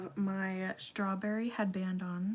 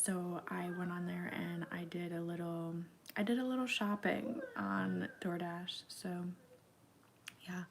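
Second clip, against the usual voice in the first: whispering. Acted. Whispered ASMR-style narration.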